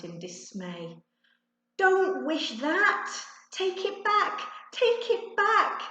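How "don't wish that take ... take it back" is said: very high, loud, slow frantic begging; desperate pleading. A narrator's reading. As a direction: beg in panic before the wish works. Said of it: "Ben pleaded".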